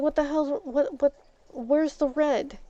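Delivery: high, loud indignant demand; outraged. Retold or imitated. Retelling confronting the ex over wrong siding colour, indignant yell. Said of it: "I was like".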